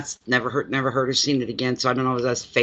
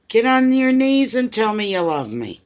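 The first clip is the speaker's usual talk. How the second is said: high, louder teasing demand to the dog; bossing the dog around in fun, pitched way up; playful mock command; 9 semitones higher, 4 dB louder than usual. Owner teasing her dog to beg for love, mock bossy and high.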